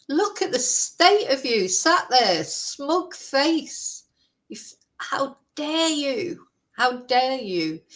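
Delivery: real anger, aimed straight at the culprit; angry. Real, not acted. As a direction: scold them in real outrage. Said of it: "I'm so angry".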